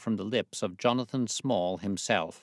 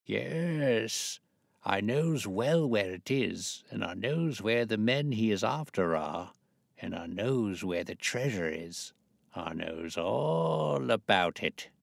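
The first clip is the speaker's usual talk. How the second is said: put-on old sailor voice; 2 semitones higher, slower than usual. Disguised old sailor speaking.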